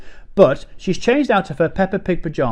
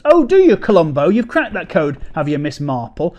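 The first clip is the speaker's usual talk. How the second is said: mock sarcasm; 4 dB louder than usual. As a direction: sneer at her, mock-impressed. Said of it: "I am already angry at this point".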